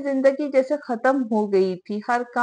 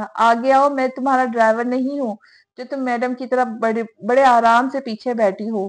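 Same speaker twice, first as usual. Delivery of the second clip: irritated scolding; 4 dB louder than usual. Acted. Rehan scolding Shanze in car.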